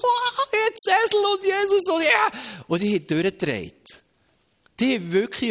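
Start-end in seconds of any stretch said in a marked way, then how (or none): 0.0-2.3 high-pitched squeal of wild excitement; crowd's ecstatic cheering. Acted. Preacher plays the crowd greeting Jesus on the donkey, ecstatic squeal.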